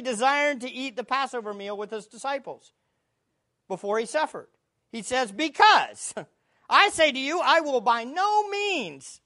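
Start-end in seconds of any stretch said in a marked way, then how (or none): 5.3-9.2 words pressed out slow and loud; emphatic. Shown as a demonstration. Preacher quoting Jesus to the congregation, emphatic. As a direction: lean hard on by no means.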